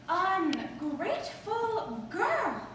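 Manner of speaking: very slow, sighing grandmother reproach; tone of regret. Retold or imitated. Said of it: "She'd just get this tone of regret".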